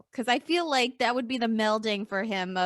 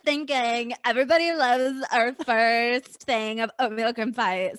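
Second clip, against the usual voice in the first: put-on Valley girl; 4 dB louder than usual. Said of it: "every marketing exec sounds like a Valley girl".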